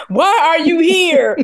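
hammed-up shout at the lord; mock yell. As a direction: yell it like a scared kid. Mock kid yelling at lord.

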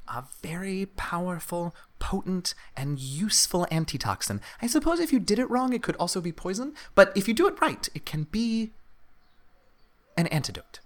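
high-pitched kobold explaining his craft; kobold alchemist. Acted. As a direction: pitch it up like an eager little creature.

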